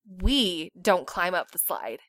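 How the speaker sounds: low, slow pointed rebuke; pointed slow scolding. Retold or imitated. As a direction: say it slowly to shame her. Other mom's slow pointed tone.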